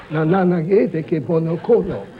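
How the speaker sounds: mock-African gibberish of an old chief; lightly voiced chief answering in double talk. Comic telling an Englishman's encounter, as the old chief. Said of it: "the old chief would say".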